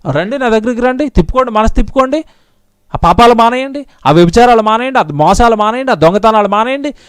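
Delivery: fervent preacher's call to repent; rhythmic pulpit appeal; preaching. Acted. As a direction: plead with the congregation to turn back.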